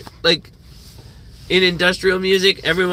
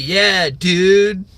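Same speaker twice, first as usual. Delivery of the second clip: Yankee accent impression; 3 semitones higher, 4 dB louder than usual. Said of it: "like a fucking Yankee".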